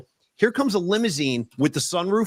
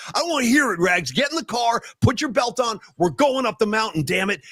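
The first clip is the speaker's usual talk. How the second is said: higher-pitched, fed-up mock yell; retold yelling; 5 semitones higher than usual. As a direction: act out bossing a friend into the car. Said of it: "I was yelling at you that day".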